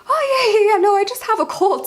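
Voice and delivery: very high, imitated crying voice; hammed-up weepy reassurance; mock tearful cover-up. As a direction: brush it off while pretending to choke back tears. Covers crying with excuse of cold.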